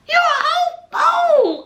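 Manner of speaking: high, loud scolding call-out; loud sassy scolding of Gino. Real, not acted. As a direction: shout him down as a fool.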